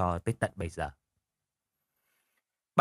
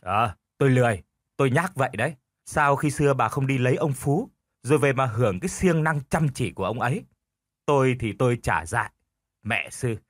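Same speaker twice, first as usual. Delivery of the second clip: put-on stubborn old husband arguing back; 2 semitones higher than usual. Husband talking back to his wife, lightly voiced stubborn retort. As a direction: argue back stubbornly, half-mocking. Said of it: "cố chảy cối cãi lại".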